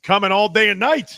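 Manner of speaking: hammed-up Austrian accent impression; Arnold Schwarzenegger. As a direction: quote it in a playful Austrian accent. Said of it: "Like Arnold Schwarzenegger".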